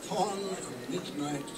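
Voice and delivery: measured, theatrical verse with long pauses; dramatic poem recitation. Acted. Reciting The Raven as its grieving narrator, dramatic poem recitation. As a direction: recite gothic verse, swelling and sinking with the story.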